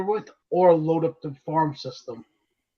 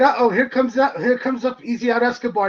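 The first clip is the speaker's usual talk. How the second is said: mild mock yell, pitched higher; retold scream; 6 semitones higher than usual. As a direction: re-enact an excited holler at half strength. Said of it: "screamed it".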